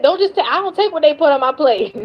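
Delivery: high mocking voice, laughing; mocking quote. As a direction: mimic her sassy words with a laugh. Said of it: "I'm being funny".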